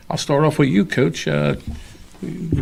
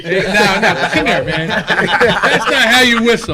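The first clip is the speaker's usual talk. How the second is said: laughing; 4 semitones higher, 5 dB louder than usual. Real, not acted. Laughing at bad whistle.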